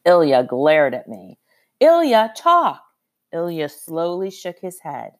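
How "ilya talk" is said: high, loud order, climbing on talk; sharp command. A narrator's reading. Ordering the silent boy to talk, high loud command. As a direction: snap at the stubborn boy to speak.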